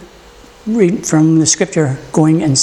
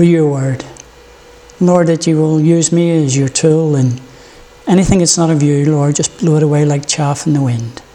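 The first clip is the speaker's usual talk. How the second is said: earnest opening prayer to the Lord. Acted. Pastor praying over the congregation, earnest prayer. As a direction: pray it, humbly asking God's blessing.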